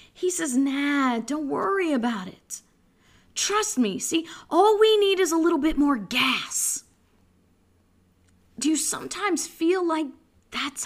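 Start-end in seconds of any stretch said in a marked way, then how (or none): 0.6-6.8 casual mock reassurance; carefree husband, no alarm at all; unconcerned husband. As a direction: brush off the panic breezily.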